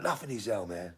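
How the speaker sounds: high-pitched film character; high put-on voice; Smokey. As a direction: imitate a high-voiced brush-off. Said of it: "He's like".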